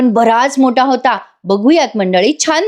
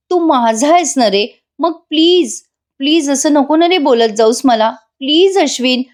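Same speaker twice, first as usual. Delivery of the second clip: higher-pitched coaxing plea; acted wifely entreaty; pleading; 4 semitones higher than usual. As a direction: gently beg a husband to relent. Acted wife begging upset husband.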